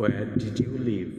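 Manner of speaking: very slow, words drawn out for learners; slow tense drill read to a class. Shown as a demonstration. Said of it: "এইভাবে করে আপনি tense অনুযায়ী".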